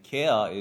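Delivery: "kea" for care, R dropped, said loudly; pidgin pronunciation. Shown as a demonstration. Explaining pidgin to visitors, "kea" said without the R. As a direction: punch "kea", care with no final R. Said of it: "is not a Hawaiian word".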